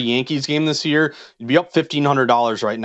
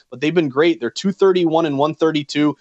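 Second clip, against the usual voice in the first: usual speaking voice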